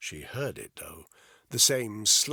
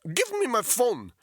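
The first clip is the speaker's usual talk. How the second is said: put-on high, loud Russian-accented orders; furious prisoner shouting at captors; angry demands; 7 dB louder than usual. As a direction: bark the demands in a thick accent. Captive demanding.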